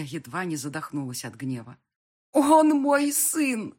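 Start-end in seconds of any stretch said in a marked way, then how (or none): 2.3-3.7 high, very slow tearful cry; desperate mother's outcry, much higher and louder; exclaiming. A narrator's reading. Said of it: "воскликнула".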